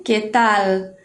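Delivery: "Qué tal" with a long tongue-tip L ending "tal"; clear final L. Shown as a demonstration. Teacher shows the important L, "tal" ending in clear L. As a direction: hold the L of "tal", never turning it into U. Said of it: "importante esta L".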